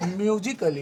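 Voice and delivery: म्यूजिकली with short "kuh-lee"; correct pronunciation. Shown as a demonstration. Teacher repeating the right reading, म्यूजिकली as myu-ji-kuh-lee. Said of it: "इसको पढ़ना है".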